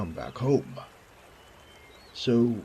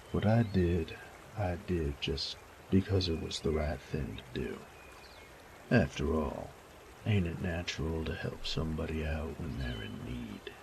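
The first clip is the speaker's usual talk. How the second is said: put-on rough young man; 2 semitones lower, 3 dB quieter than usual. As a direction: shrug off the praise. Elijah's voice, lower.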